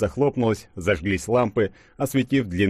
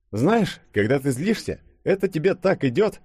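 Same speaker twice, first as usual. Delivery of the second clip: lightly sweet, raised-pitch compliment; sweet teasing; 10 semitones higher than usual. A narrator's reading. Denis complimenting angry Yulia, sweetly teasing. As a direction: tease with a smile in the voice. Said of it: "мило улыбнулся Денис".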